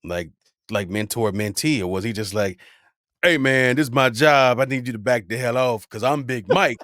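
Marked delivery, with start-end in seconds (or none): 3.2-6.8 loud mock confrontation; territorial warning. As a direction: warn off a rival, playfully forceful. Acts out territorial MC warning rival.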